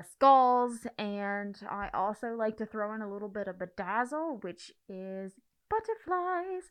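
talking through a costume mask; muffled by mask. Real, not acted. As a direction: speak from behind a mask. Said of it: "Let me take my mask off so y'all can hear me".

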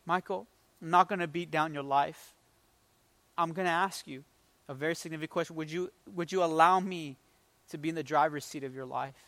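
low, soft, hushed voice; gentle whisper. Retold or imitated. God quietly asking a young man for his trust, gentle whisper. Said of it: "another soft, quiet, gentle whisper".

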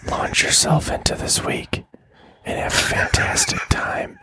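ASMR whisper. Acted. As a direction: whisper it close and gentle. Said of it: "outro with some A S M R".

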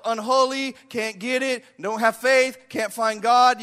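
acted yelling of one's own faults; self-accusing yell. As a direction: call out each short phrase on its own. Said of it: "yell your own issues out".

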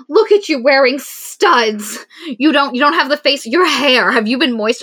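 high, loud mocking sister; hammed-up catty needling; teasing insults.

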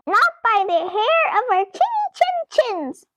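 a light mock purr. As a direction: purr it smugly, a hint of a cat.

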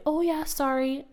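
put-on high, slowed little-kid apology; child's sorry. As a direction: sound like a sheepish preschooler. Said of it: "And hopefully they'll say".

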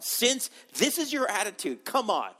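high, fed-up come on; God fed up with Solomon, exasperated. Acted.

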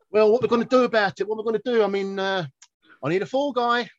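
acted film character. Quoting the film to a laughing pal, high put-on character voice. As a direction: act out the film line in a high mock voice.

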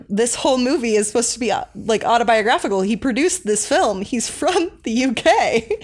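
imitating an insistent dad; exasperated dad, retold. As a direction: spell it out in mock exasperation. Retold dad arguing back.

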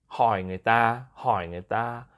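"hỏi người ta" with the dipping tone on "hỏi"; hỏi tone demo. Shown as a demonstration. Host giving an example phrase, "hỏi" dipping in "hỏi người ta". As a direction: model "hỏi người ta" twice, carefully toned. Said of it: "but it's like".

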